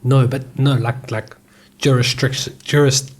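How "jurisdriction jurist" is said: stumbling over "jurisdiction" with a slurred extra r; botched attempt at "jurisdiction"; tongue-tied. Real, not acted. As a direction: trip on "jurisdiction" and break off at "jurist-". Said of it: "I can't even say it".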